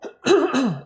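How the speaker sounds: sharp throat clear. Real, not acted. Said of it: "Sorry, I gotta keep coughing".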